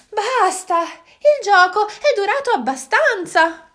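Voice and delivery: a moon who has had enough; moon exclaiming. Acted. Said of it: "esclamò".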